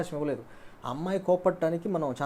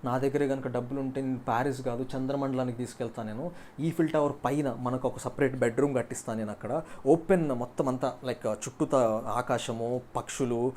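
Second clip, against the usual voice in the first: put-on playboy charming his girlfriend with grand promises; intoxicating sweet talk; 4 semitones lower than usual. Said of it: "మత్తు మత్తు మాటలు చెప్తే చాలు".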